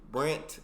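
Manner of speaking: "Brant" with crisp final T; "Brant" for brand. Shown as a demonstration. Viewer practising the lesson, "Brant" ending in T. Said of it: "that's something I can do".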